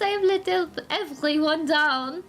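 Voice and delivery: put-on French-accented, ashamed comic character; French-accented Antoine. Apologising to his friend Tails, ashamed, in a French accent. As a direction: play a dejected Frenchman confessing.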